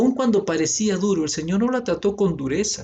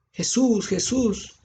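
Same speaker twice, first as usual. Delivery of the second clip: higher mock call of a blind man; 7 semitones higher, much slower than usual. Blind man calling Jesus over the crowd, mock shout. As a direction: call out Jesús across the crowd. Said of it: "Él vino gritando".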